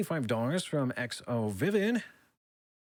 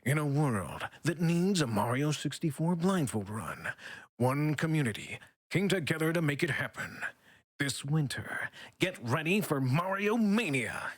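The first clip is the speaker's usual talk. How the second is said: movie trailer voice. Acted. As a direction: read it like an epic film trailer. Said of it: "reminds me of a movie trailer voiceover in a".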